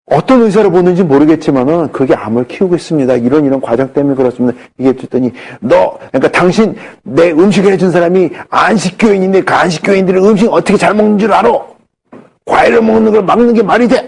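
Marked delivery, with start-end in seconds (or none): 5.6-14.1 scolding. Retold or imitated. Patient scolds the doctor over the phone, mild mock scolding. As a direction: chew him out like an indignant old patient. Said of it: "막 야단을 치시는 거야".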